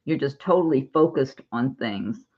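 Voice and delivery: slightly slurred around a lozenge; mouth full. Real, not acted. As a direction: talk with a cough drop in mouth. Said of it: "sounds like I'm pronouncing things different".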